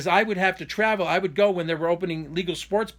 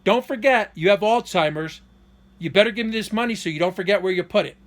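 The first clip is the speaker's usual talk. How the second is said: manipulative taunt; 2 semitones higher, 4 dB louder than usual. Retold or imitated.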